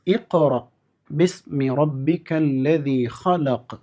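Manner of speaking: slow, drawn-out tajweed recitation; Quran recitation. Shown as a demonstration. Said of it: "പരിശീലിക്കേണ്ടത്".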